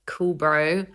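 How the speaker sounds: understated sarcastic brush-off. Retold or imitated. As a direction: say it coolly, not meaning it. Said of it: "Which is sarcastic".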